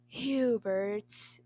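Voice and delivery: drawn-out, hammed-up "Hubert"; melodramatic mutter. Emperor calling his retainer, hammed-up and drawn out. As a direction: stretch the name out like a stage sigh. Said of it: "you muttered melodramatically".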